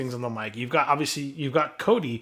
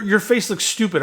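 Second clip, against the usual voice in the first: louder, high jeering take; mock Edge taunt, loud; 6 semitones higher, 4 dB louder than usual. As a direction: jeer it loudly. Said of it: "when he say".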